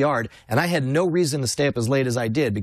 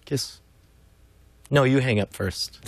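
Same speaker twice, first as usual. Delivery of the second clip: mock lovers' phone goodbye; hammed-up sweetheart hanging up; giggly late night call. Mock lovey-dovey phone goodbye.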